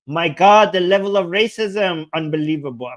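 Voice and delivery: mock dismay, sinking away; sarcastic. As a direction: feign disbelief, letting it drop off. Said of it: "I'm being sarcastic".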